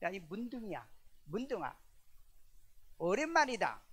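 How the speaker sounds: mock rough-but-fond buddy hello, lightly voiced; mild Gyeongsang friendly teasing; Gyeongsang friendly greeting. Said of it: "하도 반가우면은 남자들은 뭐라 그래요?".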